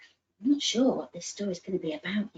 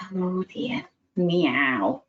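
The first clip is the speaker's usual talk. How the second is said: unimpressed cat; 4 dB louder, much slower than usual. Acted. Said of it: "said Rosie".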